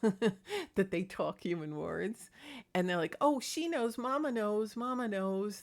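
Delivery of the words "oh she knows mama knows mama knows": higher cute cat voice, fading down; sweet little cat chatter. Retold or imitated. Cat Magic saying Mama knows, in a cute voice. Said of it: "he has this cute voice".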